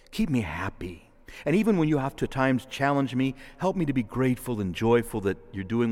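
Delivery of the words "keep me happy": barely voiced, hushed prayer line; whispered plea. Real, not acted. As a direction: breathe the words to God.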